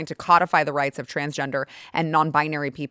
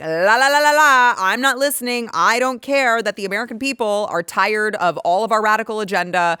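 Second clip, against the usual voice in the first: mocking Democrats. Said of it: "they're doing this thing where they are like".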